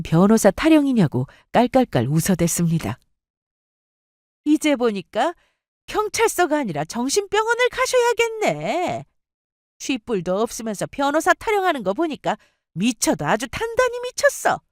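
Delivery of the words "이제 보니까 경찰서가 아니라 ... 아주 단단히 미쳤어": high-pitched, jeering mother figure; open scorn. Acted. Boyfriend's mother mocks the girlfriend at the police station, scornful. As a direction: sneer it in a high, sing-out voice. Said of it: "대놓고 비웃으며".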